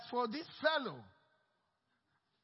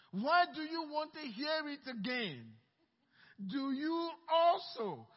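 mocking; 5 semitones higher, 5 dB louder than usual. Blind man taunts the leaders.

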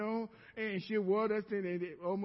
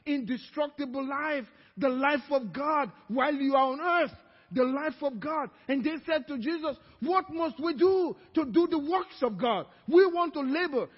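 raised, driving sermon delivery; preaching; 4 semitones higher, 5 dB louder than usual. Real, not acted. Preacher urging the congregation toward eternal life, raised voice. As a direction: preach it with rising force.

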